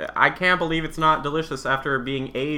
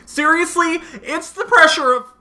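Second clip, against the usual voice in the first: put-on much higher, louder southern accent; 7 dB louder than usual. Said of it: "you're clearly doing the southern voice".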